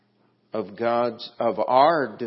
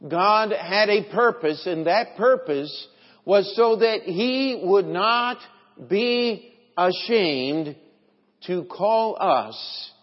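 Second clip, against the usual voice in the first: emphatic preaching; 7 semitones higher, 6 dB louder, slower than usual. Acted. Preaches with force.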